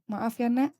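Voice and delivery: put-on gentle, remorseful apology to a child; mother apologizing to her child, remorseful; mock apology to child. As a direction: say sorry to your child humbly. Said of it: "minta maaf kepada anak-anakmu".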